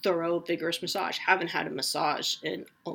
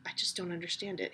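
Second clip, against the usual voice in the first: hushed, fast whispered aside; 8 dB quieter, faster than usual. Real, not acted. Podcaster whispering her gripe about the leaf-blowing neighbor. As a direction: whisper it as if the neighbors might hear.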